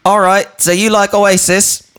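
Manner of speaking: high, polite awkward stranger impression; high mimic voice. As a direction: pipe it up like a socially awkward fan. Mimicking the odd guy.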